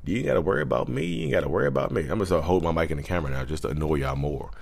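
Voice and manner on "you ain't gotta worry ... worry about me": high, quiet, fast mock reassurance; playfully reassures viewers in a high, quiet voice.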